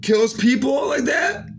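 real heated shout, pitched high; loud, high-pitched, worked-up indignation; angry outburst. Real, not acted. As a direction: raise the voice high in anger. Heated rant about drug dealers.

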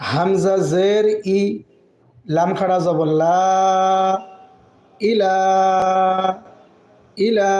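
slow syllable-by-syllable reading; teacher spelling out. Shown as a demonstration. Teacher to students, spelling the word slowly. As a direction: spell out each letter and vowel then join. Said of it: "spelling out Arabic word syllables".

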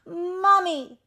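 loud high calling-out; shout. A narrator's reading. Cat and teddy shouting for mummy, loud high call. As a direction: holler it high for help. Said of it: "shouted the cat and the teddy".

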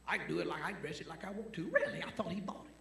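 high, incredulous challenge; mock disbelief. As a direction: feign surprise, pitch leaping on "Really". Mock debate with defiant believer.

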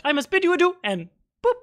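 a hint of the fey elder leaving; lightly voiced elder. NPC departs.

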